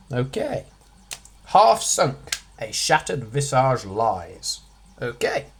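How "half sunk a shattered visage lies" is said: quote read aloud. Shown as a demonstration. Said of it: "reading the quote aloud".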